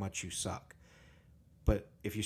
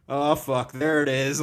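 louder, higher retold outburst; retold sudden overwhelm; 4 semitones higher, 8 dB louder, slower than usual. Friend retelling grief hitting at the funeral, loud outburst. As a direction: blurt it out as it hits you.

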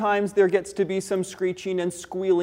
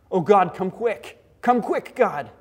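urgent plea. Acted. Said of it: "I need you to respond right now".

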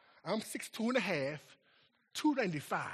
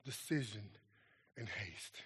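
pleading pastor; 5 semitones lower, 9 dB quieter than usual. Retold or imitated. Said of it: "He said".

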